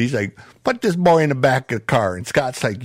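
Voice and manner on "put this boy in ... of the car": lightly voiced Southern lawman; Southern sheriff. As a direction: give an order as a small-town sheriff, slightly raised pitch. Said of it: "the typical old Southern sheriff".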